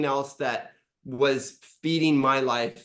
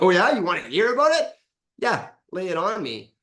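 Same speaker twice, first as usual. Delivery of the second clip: higher, louder and fast, bursting to vent; eager excitement; 4 semitones higher, 3 dB louder than usual. Retold or imitated. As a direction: rush it out like you can't wait to unload. Retold eager reply, laughing.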